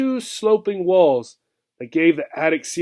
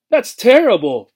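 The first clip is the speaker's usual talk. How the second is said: higher and louder, a shocked cry; shocked exclamation; 6 semitones higher, 6 dB louder than usual. A narrator's reading. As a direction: gasp it out, horrified. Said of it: "exclaimed Obie".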